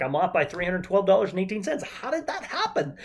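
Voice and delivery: mock bewilderment at missing money; baffled at the checkbook. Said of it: "I'm like".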